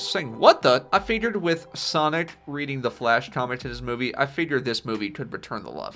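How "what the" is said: surprised. Acted. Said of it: "Sonic looks surprised".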